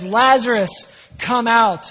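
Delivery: loud imitation of a summons; retold shout. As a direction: call the name out, then the command. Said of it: "he shouts".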